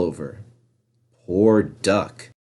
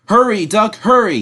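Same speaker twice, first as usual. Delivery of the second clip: high, pressing hurry; urgent call; 10 semitones higher than usual. A narrator's reading. The driver calls urgently to Duck, high. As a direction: urge him on. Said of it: "he called urgently".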